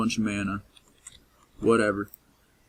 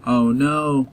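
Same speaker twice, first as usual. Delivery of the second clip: dismayed; 6 semitones higher, much slower than usual. Real, not acted. Game crashed.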